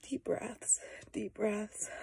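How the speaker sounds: very soft whisper; whispered self-calming. Real, not acted. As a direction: whisper to steady yourself after crying. Calming herself mid-meltdown.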